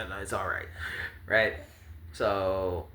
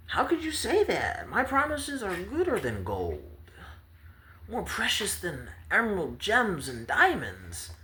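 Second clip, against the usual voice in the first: much higher, huffy bragging; high offended boasting; 8 semitones higher than usual. Acted. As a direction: sulk and brag at once. Promised child offended, boasting promises.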